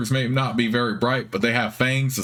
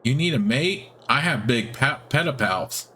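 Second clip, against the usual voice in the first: hopeful spider; 3 semitones higher than usual. Acted. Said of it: "It looks up at you hopefully".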